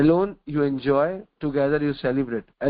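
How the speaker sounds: very slow, word by word; slow maxim. Acted. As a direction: spell out the lesson slowly for the listeners.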